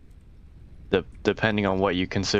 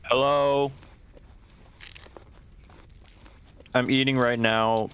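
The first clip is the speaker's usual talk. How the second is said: talking with food in mouth; mouth full; 4 semitones higher than usual. Real, not acted. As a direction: speak through a mouthful of cabbage. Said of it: "My mouth is full of cabbage".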